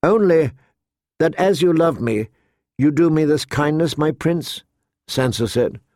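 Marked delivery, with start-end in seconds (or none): 0.0-4.6 slightly higher, earnest request; lightly voiced pleading girl. Sansa asks her prince a kindness, earnest pleading. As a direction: ask a favour earnestly.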